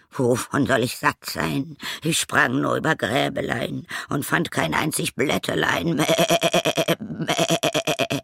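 high goat verse with long bleats; complaining goat. A narrator's reading. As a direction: whine the rhyme and bleat. Goat's complaint, voiced with bleating. (klagend meckernde Ziege)

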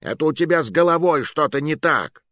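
high, stress on головой; sarcastic comeback; mocking retort. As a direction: throw it back at him.

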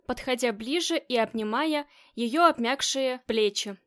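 usual speaking voice

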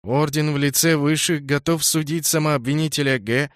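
loud, high, ringing proclamation; town crier. A narrator's reading. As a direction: announce it to the whole hall. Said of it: "Выступивший вперёд секретарь объявил".

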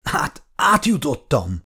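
slow, pained groan of relief. A narrator's reading. Hurt Tommy answering his brother, slowly groaning. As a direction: push the words out through pain. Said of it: "nyögött fel Tommy".

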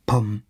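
one imitated thud; low-key mimicry of pounding; booming knock. A narrator's reading. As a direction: voice a single dull knock. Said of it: "dann noch einmal".

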